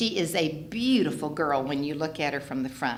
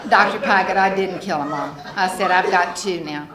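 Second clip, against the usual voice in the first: proud, excited report; 2 semitones higher, 7 dB louder than usual. Retold or imitated. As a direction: announce it like a triumph to the vet. Proud phone call to the vet.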